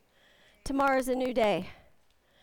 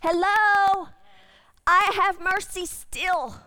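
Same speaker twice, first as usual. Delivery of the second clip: louder, higher call; God calling; 4 semitones higher, 4 dB louder, slower than usual. Acted. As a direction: call out with patience. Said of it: "he's gonna say".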